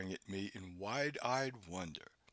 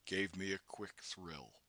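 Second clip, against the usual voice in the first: ordinary delivery, nothing marked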